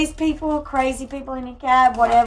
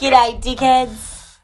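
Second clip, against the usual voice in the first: put-on slow, drawn-out Australian accent; laconic outback drawl; much slower than usual. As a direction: stretch it out like an outback bloke. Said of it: "That's what I would say if I was at home".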